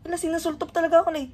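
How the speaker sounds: laughing while tickled. Real, not acted. Fish nibbling her feet.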